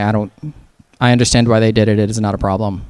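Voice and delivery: a lightly voiced, unbothered deadpan. Daria-like character brushing off a terrible act in low deadpan. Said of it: "Super deadpan, very monotone".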